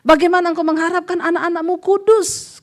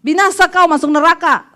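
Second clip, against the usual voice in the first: louder, higher condemning shout; fierce rebuke; 3 semitones higher, 5 dB louder than usual. Retold or imitated. Pastor rebuking the cheating husband, loud and fierce. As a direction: thunder a curse down the phone.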